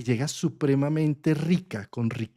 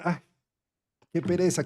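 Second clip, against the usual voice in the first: a touch of mock laziness, soft and higher; reluctant sigh; 4 semitones higher, 4 dB quieter than usual. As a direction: whine it like you can't be bothered. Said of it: "pero de mala gana". (con pereza fingida, suave y quejumbrosa)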